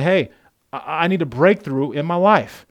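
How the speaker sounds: loud, earnest plea; pleading prayer. Shown as a demonstration. Pastor voices anyone who needs a breakthrough, pleading loudly. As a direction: beg God out loud. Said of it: "anybody else besides me going".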